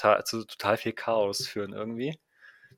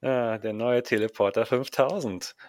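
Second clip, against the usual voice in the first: ad announcer. Pretend.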